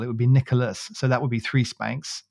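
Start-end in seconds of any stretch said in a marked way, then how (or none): 0.0-0.9 Ni-cho-las, each syllable spanked out; syllable by syllable, like a scolding mum; every syllable stressed. Retold or imitated. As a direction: space out every syllable of Nicholas. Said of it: "every syllable".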